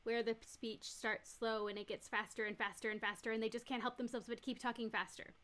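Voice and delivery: starting at normal pace, speeding up to fast; pressured speech. Shown as a demonstration. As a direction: pick up speed like a locomotive. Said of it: "hear kind of like a locomotive".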